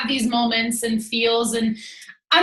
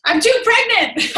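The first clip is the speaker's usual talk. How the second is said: high, slow, put-on moaning voice; mock whiny complaint; 10 semitones higher, 3 dB louder, slower than usual. Joking to the group about her weekend, high whiny mock moan. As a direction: play up the pregnant complaint, drawn out. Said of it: "I kept saying that".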